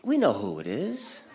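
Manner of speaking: ordinary talk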